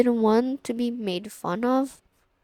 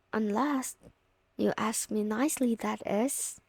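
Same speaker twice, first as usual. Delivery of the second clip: teasing hush; 6 dB quieter than usual. Acted. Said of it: "I'm just teasing".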